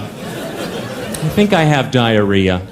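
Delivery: low, slow, pained moan; mock sick soldier. Invading soldier lost in Mexico, moaning low and slow. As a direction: groan it like a soldier with a bad stomach.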